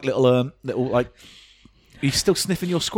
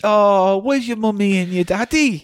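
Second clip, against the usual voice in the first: kind gentleman; 9 semitones higher than usual. Acted. Kindly gent voice.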